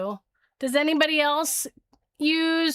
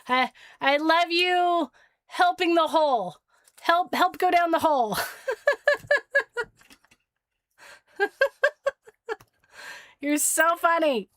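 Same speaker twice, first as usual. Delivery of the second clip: laughing at the pet; 4 semitones higher than usual. Real, not acted. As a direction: laugh along with the little one.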